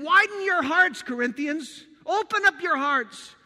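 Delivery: Paul pleading with the Corinthians, loud and urgent; urgent plea. Acted. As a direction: urge them to open up. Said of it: "this is what Paul's saying".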